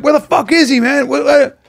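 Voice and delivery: high-pitched frantic questioning; retold panic. Friends in the tree looking for Ned, frantic. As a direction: act out alarmed searching, pitch up. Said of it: "they're like".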